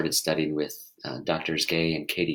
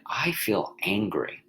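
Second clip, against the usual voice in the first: slow, simple statement; 3 dB quieter, slower than usual. Shown as a demonstration. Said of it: "try this little thought experiment".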